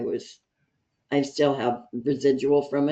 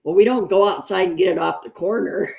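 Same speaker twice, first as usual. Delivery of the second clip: retold as a laughing comeback, higher and louder; amused retort; 5 semitones higher, 5 dB louder than usual. Medic answering a patient's fear of street drugs, amused. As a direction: tease back at a silly worry, pitched up. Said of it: "the guy laughed at me".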